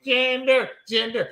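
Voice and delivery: high-pitched gleeful imitation; mock excited. Wrestler thrilled the crowd chants his name, mock excited. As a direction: pipe up high, hammed-up excitement. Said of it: "And he was so excited".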